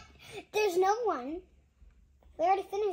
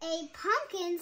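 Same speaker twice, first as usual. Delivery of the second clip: happily; 2 semitones higher, 4 dB louder than usual. Acted. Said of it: "Spooky says happily".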